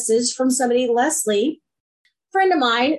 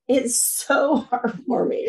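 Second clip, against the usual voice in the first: slow, softer "heartwarming" broken by a laugh; laughing softly; slower than usual. Real, not acted. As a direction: let a real laugh catch the words, slowing down. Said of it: "I mean, it's so heartwarming".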